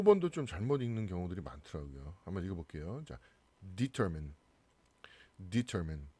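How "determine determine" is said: "determine" ending in -min, not mine; "determine" with a short -men ending; reduced final syllable. Shown as a demonstration. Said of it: "이렇게 man 이렇게 발음이".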